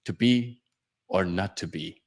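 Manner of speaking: soft, measured quote with a pause; understated, low-key stage quotation; hushed recitation. Acted. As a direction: recite it quietly, pausing before the second half. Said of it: "That's why we still recite".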